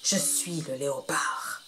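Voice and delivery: a predator purring its threat; low menacing leopard. Acted. Leopard answers the monkey.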